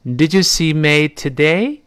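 slow question with a rising end; teacher read-along; read after me. Shown as a demonstration. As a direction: model it slowly for the class to repeat. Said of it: "跟老师再读一遍".

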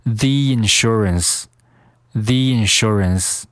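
"the" said thee, joined to "insurance"; "the insurance" with a long ee linking the words; linked "the insurance". Shown as a demonstration. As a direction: run "the insurance" together as thee-insurance. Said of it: "the和insurance进行连读".

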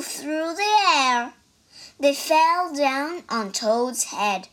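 reading a picture book aloud, line by line; story narration. A narrator's reading. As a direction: tell the story to listeners in a lively way. Child reads story aloud.

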